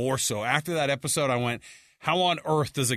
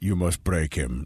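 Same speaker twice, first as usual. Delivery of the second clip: very deep, very low cartoon villain voice; 8 semitones lower than usual. Retelling a man's line from the scenes, doing the Doctor Claw voice. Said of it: "Doctor Claw from Inspector Gadget voice".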